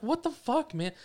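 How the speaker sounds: high-pitched exasperated outburst, retold; retold outrage. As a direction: protest in disbelief at the bad driver. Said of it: "fucking yelled at him".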